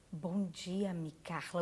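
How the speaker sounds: distinctive intonation, low and slow. Recalling Mari greeting the speaker in the interviewees' VIP room, imitating Mari's intonation. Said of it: "o jeito dela, ... a entonação".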